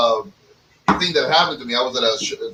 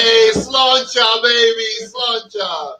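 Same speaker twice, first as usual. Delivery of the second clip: cheerful toast; 7 semitones higher, much slower than usual. Real, not acted.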